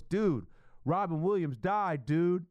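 slow, drawn-out casual dude voice; imitating Twitter dude. Twitter stranger breaking the news, slow casual dude voice. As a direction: lazily drag out each word. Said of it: "That's how he said it".

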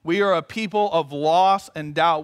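prayer. Real, not acted. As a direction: lead the congregation in prayer. Leads prayer.

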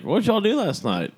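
high-pitched mock parent; imitating a parent, voice jumping high; imitated parent's question. Voices parents questioning him as kid.

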